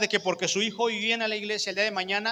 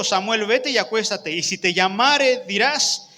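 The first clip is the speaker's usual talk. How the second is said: solemn Eli instructing; 4 dB louder than usual. Acted.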